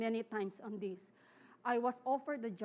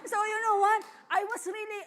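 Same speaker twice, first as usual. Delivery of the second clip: choked up; 9 semitones higher, 9 dB louder than usual. Real, not acted. Moved recalling God's provision.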